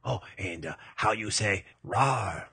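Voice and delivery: mock-French accent, hesitant; small French-accented roar; French tiger. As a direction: grope for the word in a comic French accent. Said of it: "I am the French tiger".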